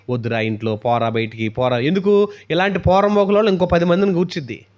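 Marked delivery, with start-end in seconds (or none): 0.1-1.8 a hint of a low devil urging; devil's voice. Preacher voicing the devil pushing a boy outside, low mock coaxing. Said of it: "అదే దాని ఆలోచన ఏంటి?".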